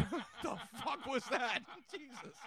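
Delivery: laughing through the words. Real, not acted. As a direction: crack up while talking. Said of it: "I can't stop laughing".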